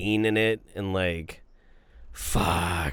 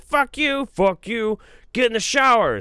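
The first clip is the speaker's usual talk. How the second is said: high, heated retort in a retold quarrel; mock angry dare; 11 semitones higher, 5 dB louder than usual. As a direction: act out goading a friend, pitched way up.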